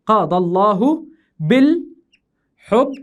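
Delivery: slow, drawn-out verse pieces; syllable-by-syllable scansion. Shown as a demonstration. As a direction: recite slowly, pausing between the pieces. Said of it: "يلا يا أخوي نقطع". (تقطيع عروضي بطيء)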